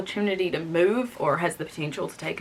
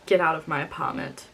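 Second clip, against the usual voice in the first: calm repeat; 3 semitones lower than usual. Retold or imitated. Lily calmly repeats herself to her husband, understated calm. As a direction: keep the order controlled and understated. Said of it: "I calmly repeat myself".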